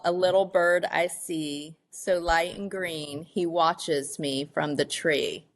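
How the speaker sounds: slow, measured poem reading; gently paced verse, line by line; poem recital. Real, not acted. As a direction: read your own poem aloud, unhurried. Reads own poem aloud.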